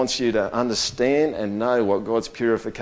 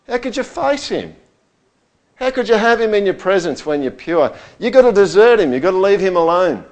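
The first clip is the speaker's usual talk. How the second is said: higher and louder, pressing the point home; rising preaching intensity; 7 semitones higher, 4 dB louder than usual. Real, not acted. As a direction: preach it with mounting force. Preaching climax.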